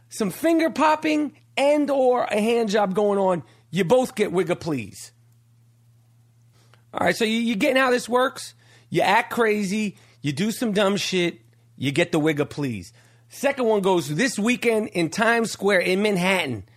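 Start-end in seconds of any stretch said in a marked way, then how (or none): 3.7-5.1 deep catchphrase drop. Acted. Catchphrase with the pitch dropping. 11.8-12.9 deep catchphrase drop. Acted. Catchphrase, pitch sinking.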